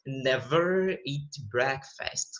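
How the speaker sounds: Never eat breakfast said slowly, each word separate; slow teacher model of Never eat breakfast; clear English demo. Shown as a demonstration. Teacher to student, slow model of Never eat breakfast. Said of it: "A gente não fala, né, meio enrolado".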